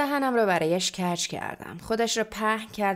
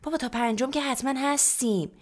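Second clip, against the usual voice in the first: higher-pitched, matter-of-course reply; self-righteous; 6 semitones higher than usual. A narrator's reading. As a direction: answer as if entirely in the right. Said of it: "با قیافهٔ حق به جانب جواب داد". (حق به جانب)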